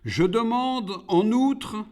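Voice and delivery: high-pitched crawling demon; demanding demon. A narrator's reading. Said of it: "ajouta le rampant".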